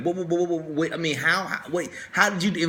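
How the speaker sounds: stuttering in disbelief; stammering. Retold or imitated. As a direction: trip over the words, stunned. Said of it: "they're just stuttering and stammering".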